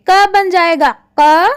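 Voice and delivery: second क said as q, from the back of the throat; nukta sounds. Shown as a demonstration. Teacher showing pupils क turning into a throaty q. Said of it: "नुक्ता लगा दिया तो उनका उच्चारण हम और ढंग से करेंगे".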